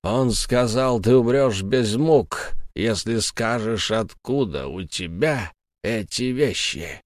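slow cold ghost. Acted. Ghost Tom coldly relays the master's terms. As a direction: lay out the threat calmly.

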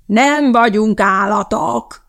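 slow, drawn-out angry yell. A narrator's reading. Teacher yells at the class, furious. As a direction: stretch out every word in a contained roar. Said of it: "ordította Mrs. Mudford".

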